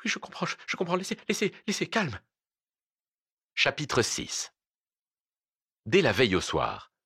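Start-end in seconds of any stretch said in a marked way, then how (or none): 0.0-2.2 high, small, pleading voice; soft pitiful murmur, pitched way up; piteous murmur. Acted. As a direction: whimper it softly, stammering to appease. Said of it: "piteusement murmurait".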